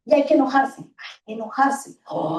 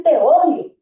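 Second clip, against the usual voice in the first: put-on child yelling at dad, louder; angry child; 4 semitones higher, 4 dB louder than usual. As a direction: throw it at the parent in a tantrum. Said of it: "cuando nos dicen". (hijo enojado gritándole a su papá)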